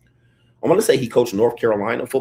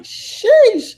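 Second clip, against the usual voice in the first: loud, high drawn-out "sheesh"; exaggerated shock, pitch soaring; shocked reaction; 9 dB louder than usual. Man reacting to how coldly she said it, shocked.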